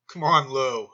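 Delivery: Ted Baxter impression. Podcaster jokingly voices Ted Baxter to Lou, lightly mock-pompous. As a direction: toss off a hint of a vain newsman's whine. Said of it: "Now it's my Ted Baxter".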